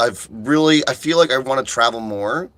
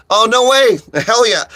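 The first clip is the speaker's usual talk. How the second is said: high, loud excited cheer; delighted surprise; 10 semitones higher, 6 dB louder than usual. Real, not acted. Streamer reacting to good news in chat, delighted. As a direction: burst out with thrilled surprise.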